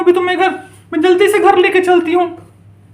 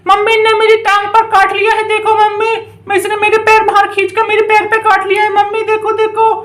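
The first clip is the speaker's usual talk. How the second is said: lightly voiced little child pleading; trapped child; 2 semitones higher than usual. Children trapped in basket call to mummy, mildly pleading.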